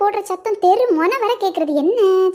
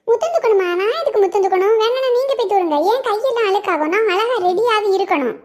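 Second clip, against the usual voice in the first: indignant; 4 semitones higher than usual. Acted. Daughter refusing chores indignantly.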